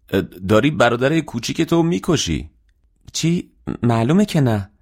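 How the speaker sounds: high-pitched lively sibling banter; acted animated protest; excited exclaiming. Siblings exclaim during a tight hug.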